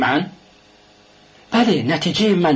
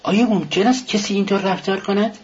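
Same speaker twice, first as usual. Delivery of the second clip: higher, indignant outburst; a touch of indignant anger; angry; 8 semitones higher than usual. A narrator's reading. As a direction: protest it in disbelief. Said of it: "رازومیخین که عصبانی شده بود گفت".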